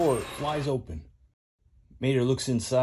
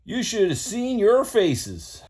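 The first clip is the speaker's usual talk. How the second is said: slow gloating Mater; 10 semitones higher, 4 dB louder, slower than usual. Acted.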